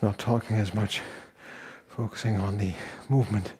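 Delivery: slightly winded mid-workout; out of breath. Real, not acted. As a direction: talk between breaths, a little winded. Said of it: "You can tell I'm slightly out of breath".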